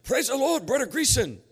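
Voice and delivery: put-on high, loud Norwegian-accented greeting. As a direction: imitate an excitable Norwegian caller. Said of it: "the other voice on the line said".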